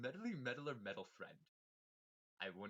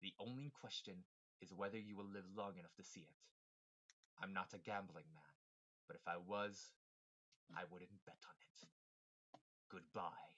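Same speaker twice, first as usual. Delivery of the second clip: evil villain voice; 3 semitones lower, 4 dB quieter than usual. Acted. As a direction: deliver it like a cold mastermind. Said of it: "evil villain voice".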